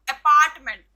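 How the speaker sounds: अपार्टमेंट punched loud on पार्ट; stress on PART. Shown as a demonstration. Teacher showing students second-syllable stress, अपार्टमेंट stressed on पार्ट. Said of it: "पी पे stress हुआ है".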